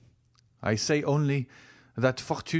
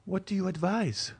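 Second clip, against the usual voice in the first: sighing; 10 semitones higher than usual. Acted. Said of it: "raising her eyes to heaven and sighing".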